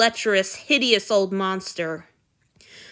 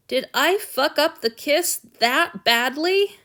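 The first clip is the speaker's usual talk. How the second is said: dismayed inner voice; 7 semitones higher, 5 dB louder than usual. A narrator's reading. Hurt lover asks himself.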